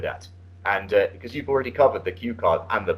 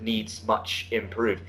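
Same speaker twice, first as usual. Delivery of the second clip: slow, softer quote of "needs much improve"; quoting the student's error; 6 dB quieter, much slower than usual. Retold or imitated. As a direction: read the student's error back slowly. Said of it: "at one point you said".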